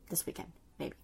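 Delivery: soft unvoiced whisper. Real, not acted. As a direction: breathe it out as an aside. Trailing aside about editing.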